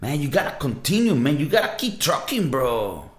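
essay voice. Retold or imitated. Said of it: "like, on, on an essay voice".

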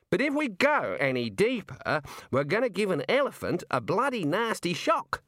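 high, emphatic objection; blunt Arch-Chancellor. Acted. The Arch-Chancellor answers the Dean about digging, blunt.

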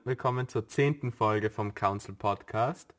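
overdriven mic, distorted; clipping distorted mic. Real, not acted. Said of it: "übersteuerst ein bisschen".

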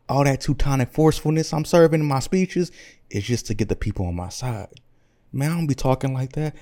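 lightly voiced streetwise braggart; casual hip-hop Hitler. Hitler confessing his Atlanta roots to the negotiators, lightly voiced swagger. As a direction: explain yourself with laid-back rapper swagger.

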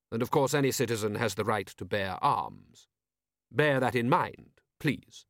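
lightly voiced, smooth ruler; brief them with dry, courtly amusement; urbane patrician. Patrician explaining the prince's visit, urbane and dry.

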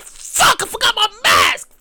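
high startled curse; comic panicked realization; mock dismay. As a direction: realize the mask is gone. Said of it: "be like".

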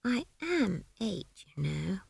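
slow, soft, muffled from inside a ball; muffled child voice. Acted. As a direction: speak as if curled up hiding. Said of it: "a muffled voice said".

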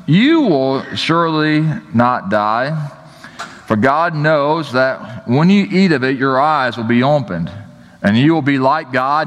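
lifted, measured reading of scripture. Acted. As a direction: read the passage out to the congregation. Reads Genesis passage aloud.

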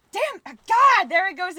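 high, loud burst of frustration; exasperated outburst. Real, not acted. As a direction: blurt it out, annoyed at yourself. Catching herself saying all right.

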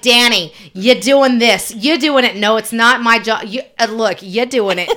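mock bossy wife insisting; imitating mom. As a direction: boss him around like his wife. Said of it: "she would have been like".

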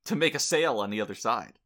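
loud stand-up joke delivery; old borscht belt comic. Pretend. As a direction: punch it like a nightclub comic. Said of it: "I'll do my own set for you".

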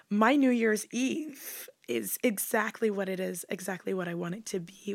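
low, husky sultry voice; a low, husky voice with a raspy edge; low magnetic voice. Real, not acted. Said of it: "your voice is so sexy".

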